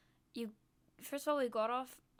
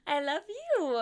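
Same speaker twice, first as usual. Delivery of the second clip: laughing high I love you; giggling through the words; 11 semitones higher, 4 dB louder, slower than usual. Real, not acted. Laughing affection to chat.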